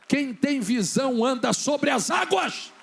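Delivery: loud, slow, emphatic declaration; preaching proclamation. Real, not acted. Preacher declaring the lesson to the congregation, loud proclamation. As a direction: proclaim it with full force.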